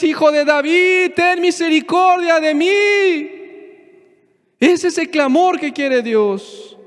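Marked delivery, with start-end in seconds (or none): 0.0-3.3 raised, pitched-up plea for mercy; pleading cry. Retold or imitated. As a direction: beg for mercy, voice lifted. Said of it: "le digas".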